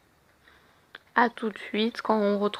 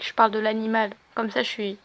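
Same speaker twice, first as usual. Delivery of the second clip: normal talking voice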